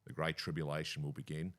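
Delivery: low, ominous premier impression; scary Dan voice. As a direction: announce doom like a grave politician. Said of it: "it's a scary voice".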